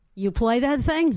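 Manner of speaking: put-on New York cab driver accent. Retelling a cab driver's question to Livingston in the back seat, New York accent. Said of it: "in a New York accent".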